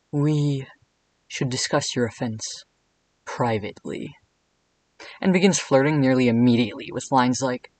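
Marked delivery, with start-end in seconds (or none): 0.1-4.1 a hint of a sultry Cat King voice; Lucas Gage as the Cat King. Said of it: "Let me do my best Lucas Gage voice as, like, the Cat King".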